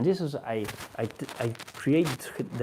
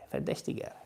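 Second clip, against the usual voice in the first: whispered repeat; 6 dB quieter than usual. Real, not acted. Repeating the word to himself.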